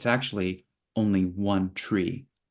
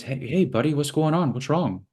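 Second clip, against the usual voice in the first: friendly concern; 6 semitones higher than usual. Acted. Enlightened wave greets worried wave.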